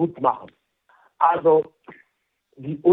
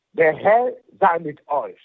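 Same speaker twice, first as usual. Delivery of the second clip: liturgical blessing. Real, not acted. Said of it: "darf ich Sie noch um den Segen für unsere Hörer bitten".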